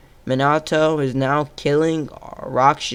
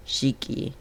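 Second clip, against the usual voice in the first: quiet muttering; 9 dB quieter than usual. Real, not acted. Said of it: "There you go".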